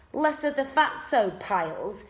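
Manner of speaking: talking while munching; mouth full. A narrator's reading. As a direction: chew and talk at once.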